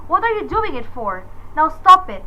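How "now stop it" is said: hysterical, louder with each stop it; shrieking. Acted. Terrified woman screams at the ringing phone, shrieking. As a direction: stop it shrieked high and loud.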